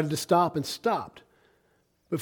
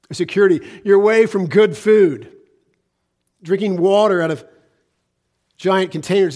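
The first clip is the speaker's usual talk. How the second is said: insistent, louder list of hardships; emphatic preaching; 3 semitones higher, 7 dB louder than usual. Real, not acted. Former Marine preaching on what service takes away, insistent. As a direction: drive each phrase home to the congregation.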